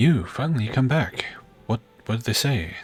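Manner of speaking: trembling, quavering, half-scared voice. Narrator voicing a merchant greeting someone who returns, in a trembling voice. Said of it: "The merchant says in a trembling voice".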